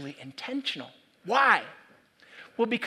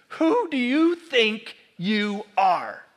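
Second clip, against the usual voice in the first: slow, louder sneer of a question; scornful challenge; 3 semitones higher, 5 dB louder, slower than usual. Retold or imitated. Elites sneering at Jesus, slow and scornful. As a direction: drag it out with contempt. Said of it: "In other words".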